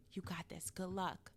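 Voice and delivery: softly retold good-luck wish; quiet encouragement. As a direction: say it gently, as a quick aside to a pupil. First retold encouragement to student.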